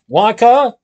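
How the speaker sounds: loud angry bellow. Acted. Slugworth floating away, bellowing at Willie in alarm. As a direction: roar the name upward. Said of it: "he bellowed".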